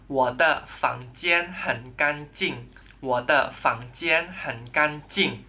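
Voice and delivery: 我的房间很干净 said slowly and clearly; slow classroom repetition; slow model sentence. Shown as a demonstration. Teacher repeats 我的房间很干净 slowly for students.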